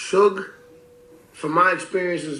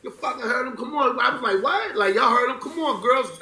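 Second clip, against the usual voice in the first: laughing shooing; 8 semitones higher than usual. Retold or imitated.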